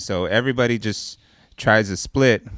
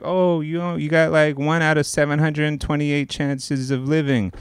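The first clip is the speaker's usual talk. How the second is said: everyone; 7 semitones higher than usual. Retold or imitated. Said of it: "everyone's like".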